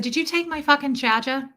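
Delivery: put-on New York accent, dropped R's. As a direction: mimic a New York woman's demand. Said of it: "I live in New York".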